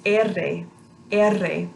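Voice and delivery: trilled R sound; rolled r. Shown as a demonstration. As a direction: roll the R, tongue fluttering. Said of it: "That is pronounced".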